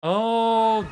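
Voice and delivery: sudden high startled "oh"; surprised. Real, not acted. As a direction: caught off guard. Startled by bubble pop noise.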